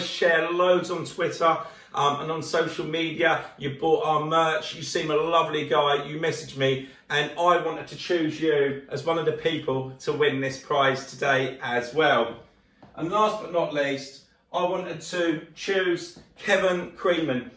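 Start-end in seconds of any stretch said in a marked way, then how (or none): none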